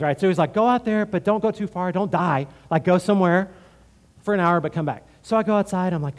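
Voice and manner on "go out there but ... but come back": booming retreat leader. Retold or imitated. Retreat leader's instructions, voiced.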